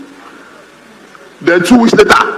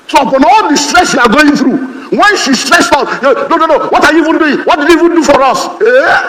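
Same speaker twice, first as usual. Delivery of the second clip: mock nagging wife; 7 semitones higher than usual. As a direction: imitate a nagging wife scolding. Wife nagging husband, voiced.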